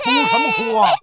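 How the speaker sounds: high, loud, irritated yell; angry scolding. Acted. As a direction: snap loudly at someone to stop crying. Merchant scolds crying beggars. (厉声呵斥)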